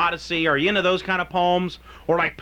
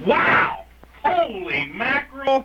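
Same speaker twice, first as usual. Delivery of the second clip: amazed; 6 semitones higher, slower than usual. Real, not acted. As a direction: burst out in astonishment. Reacting to the poem.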